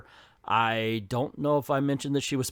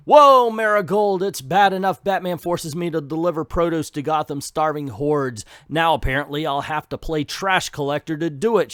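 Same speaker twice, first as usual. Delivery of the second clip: a hint of a cranky Ivy griping at her horse; Ivy complaining; 2 semitones higher, 6 dB louder than usual. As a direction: grumble as a put-upon Ivy. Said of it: "she says".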